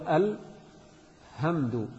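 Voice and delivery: drawn-out "الحمد" with plain h, al-hamdu; very slowly sound "الحمد" as الهمدو; ha for hha. Shown as a demonstration. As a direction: replace the throaty ح of "الحمد" with a light ه. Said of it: "يبدل الحاء".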